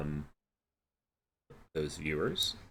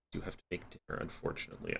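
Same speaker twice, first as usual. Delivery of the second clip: talking through a yawn; 4 semitones lower, 11 dB quieter, faster than usual. Real, not acted. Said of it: "as you can hear from my yawning".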